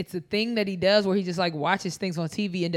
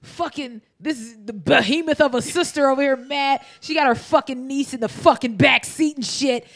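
imitating Bill Burr; 4 semitones higher, 3 dB louder than usual. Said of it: "Bill Burr is like".

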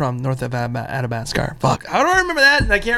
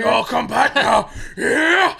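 mock Southern drawl; 6 semitones higher, much slower than usual. Echoing the Southern movie line.

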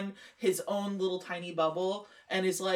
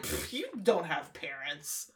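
low, slow scoffing mumble; dismissive mumble; 6 semitones lower, 6 dB quieter, slower than usual. Retold or imitated. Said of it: "He's just like".

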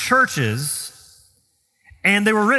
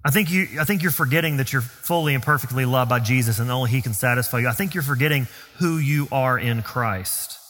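mildly gentle, slightly lowered voice; 4 semitones lower than usual. Acted. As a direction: step in gently to remind a friend. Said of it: "we need to gently step in and say".

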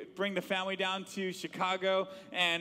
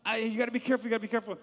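put-on raised, higher call after a kid racing downhill; dad calling after his son speeding down a hill, raised voice; 5 semitones higher, faster than usual. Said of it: "and I was like".

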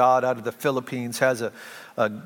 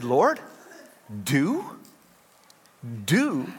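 puzzled questioning; 3 dB quieter, much slower than usual. Retold or imitated. Questions God, unimpressed by the word.

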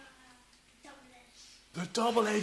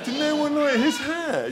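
plain; 9 semitones higher, 5 dB louder than usual. Real, not acted. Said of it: "question repeated to the children".

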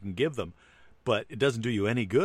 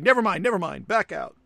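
panicked; 10 semitones higher, 6 dB louder than usual. Retold or imitated. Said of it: "And then you're like".

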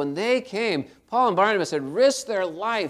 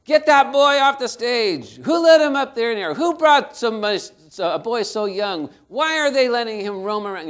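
loud, indignant audience shouting; crowd yelling; 8 semitones higher, 9 dB louder than usual. Retold or imitated. Angry concert crowd yells at the boy, loud indignant shout. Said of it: "they started yelling out".

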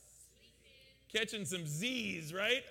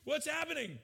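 high, loud astonished cry; amazed shout; 11 semitones higher, 5 dB louder than usual. Retold or imitated. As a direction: react like your friend just walked on water. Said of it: "would you be like".

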